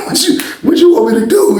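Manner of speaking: high-pitched, amused helplessness; laughing protest. Retold or imitated. Inmate answering Popcorn's complaint, high laughing protest. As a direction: laugh through a high, pleading question.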